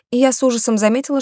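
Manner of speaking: ordinary delivery, nothing marked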